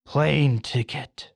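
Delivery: slow, deliberate divine command; lightly voiced heavenly order; voice of God. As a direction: stretch the words out insistently. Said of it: "The voice goes".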